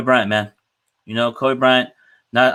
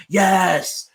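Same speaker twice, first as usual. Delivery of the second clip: imitating Kobe's yes; 7 semitones higher than usual.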